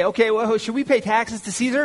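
mock sly trick question. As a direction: play the schemers laying a trap, hammed up. Pharisees try a trick question.

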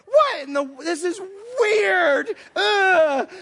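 high, loud comic wail of disgust; hammed-up squirming distress; freaked out. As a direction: whine in mock horror, stretching the last words. Recoiling from stranger rubbing his hands.

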